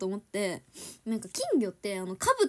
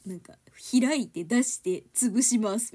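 mock instruction reading; 4 dB louder, slower than usual.

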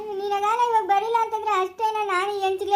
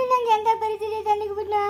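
crying; 2 semitones higher than usual. Acted. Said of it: "ಯಾಕೆ ಅಳ್ತಾ ಇದೀಯ?".

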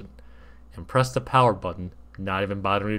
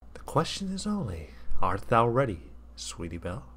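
lightly voiced solemn figure. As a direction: ask gently but gravely. Jesus asks softly.

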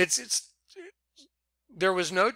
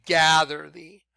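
"Gather" slow and louder, rising at the end; stress on gather; 5 dB louder, slower than usual. Shown as a demonstration. Preacher repeating the key word for viewers, slow and loud. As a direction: lean into "Gather thee" deliberately. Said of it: "the reason I'm emphasizing certain words".

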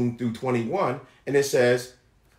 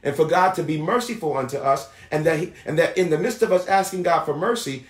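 emphatic preacher's delivery with stretched key words; preaching; 5 semitones higher than usual. Acted. Preacher assuring the people God shows mercy, emphatic preaching. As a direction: preach it firmly, punching key phrases.

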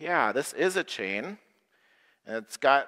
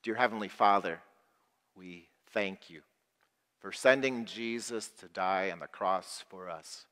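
prayer. Acted. Pastor praying aloud with the congregation, reverent. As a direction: pray aloud for the group.

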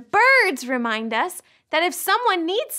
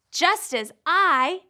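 slow recitation; much slower than usual. Acted. Reciting verse slowly.

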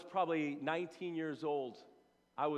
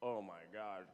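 awed hush; 7 semitones lower, 8 dB quieter than usual. Retold or imitated. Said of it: "I was just like".

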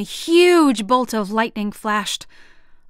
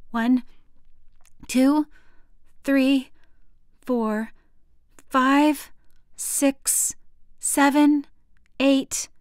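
tense counting; 5 semitones higher, much slower than usual. Acted. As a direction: count each number tensely. Child counting during lightning.

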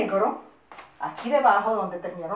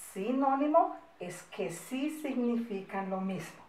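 "Sinónimo" and "sí" picked out, linking them; stress on SÍ; 4 dB quieter than usual. Shown as a demonstration. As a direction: lean on the "sí" in "Sinónimo" and "sí". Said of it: "Por eso empieza por sí". (énfasis en «sí» de «Sinónimo»)

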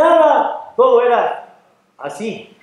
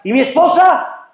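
high, alarmed protest; crying out; 9 semitones higher, 4 dB louder than usual. Acted. Man about to be taken asks after his wife, crying out. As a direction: cry it out in acted panic. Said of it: "él empieza a gritar".

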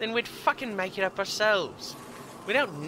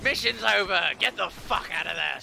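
barked order. Acted. Yelling the mission-over order.

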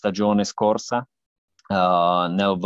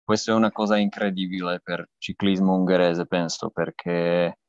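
halting Italian with a Slovak accent; non-native Italian, Slovak accent. Real, not acted. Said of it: "mio italiano, eh, è lontano dal perfetto".

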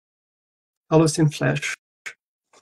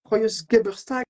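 mock harsh German; 5 semitones higher than usual.

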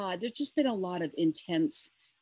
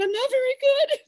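high, breaking, on the edge of tears; retold tearful reply; 9 dB louder than usual. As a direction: quote yourself choking up. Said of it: "And I started to cry".

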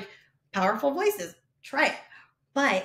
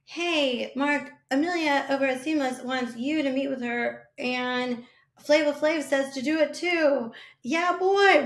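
put-on higher, building to a loud "Yeah, boy" shout; impression of a singer; 4 semitones higher, 3 dB louder than usual. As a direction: lightly imitate the singer's eager cameo pitch. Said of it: "He's like".

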